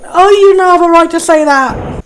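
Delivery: put-on a parent snapping at the child; angry parent. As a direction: scold the child hard. Repeated louder parent rebuke.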